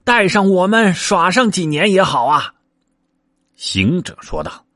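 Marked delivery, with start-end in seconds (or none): 0.0-2.5 very high, rushed little-monkey plea; panicked pleading. A narrator's reading. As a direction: clutch at him in alarm, begging. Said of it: "慌的那群猴拦住道".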